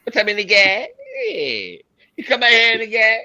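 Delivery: Yao Ming impression. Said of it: "can you do Yao Ming getting his hair cut".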